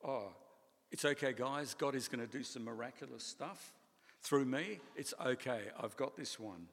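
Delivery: hammed-up "I've got this"; mock breezy reassurance. Imagined Jesus breezily reassuring disciples, mock cheerful. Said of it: "He didn't say".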